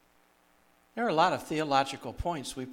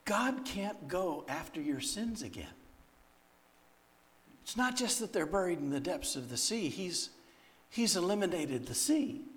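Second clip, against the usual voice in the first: higher, insistent retelling of her correction; imitated earnest lecture, pitched up; emphatic admonishing; 5 semitones higher than usual. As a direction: drive the point home like a no-nonsense teacher. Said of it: "she can't yell at me again".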